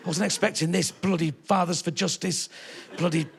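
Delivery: a hint of a scandalised audience member whispering to her friend; prim old lady. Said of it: "nudging each other going".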